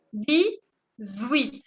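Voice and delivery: "Dix-huit" como "dizuít", la x como z. Shown as a demonstration. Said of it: "se pronuncia como si fuera una Z". ("Dix-huit" con liaison en z)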